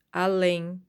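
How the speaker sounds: além with the LÉM punched; final-syllable stress. Shown as a demonstration. Teacher showing pupils an oxítona, stressed on the end. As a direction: lean hard on the last syllable of além. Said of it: "a última sílaba é a forte".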